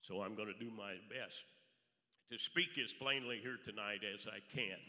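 hoarse, allergy-roughened voice; raspy voice. Real, not acted. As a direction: speak through a raspy throat. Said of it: "I am sorry about my raspy voice".

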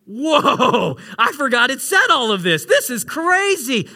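retold amazement, stretching the words; astonished reaction. Preacher recalling his reading of Song of Songs, astonished. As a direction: re-enact a stunned, drawn-out reaction. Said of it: "and I was like".

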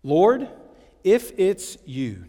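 slow, measured doubt on the IF. Acted. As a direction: question it slowly, leaning on if. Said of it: "hear the doubt in his voice".

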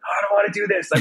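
high-pitched childish whine, played for laughs; whining kid. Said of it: "in my head, I remember, I'm like".

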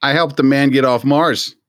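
vegetable trash talk; boastful vegetable. Pretend. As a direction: talk trash like a proud potato. Vegetables trading insults.

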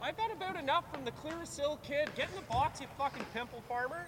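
Canadian hockey player. Acted. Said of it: "Sounds nothing fucking like me".

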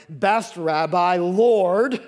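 a blind beggar calling out in faith; pleading cry. Acted. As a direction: reach out in hope. Blind man calls to Jesus.

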